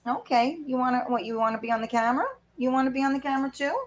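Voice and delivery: high, soft pet-talk questions; coaxing a pet. Real, not acted. Asking pet to join camera.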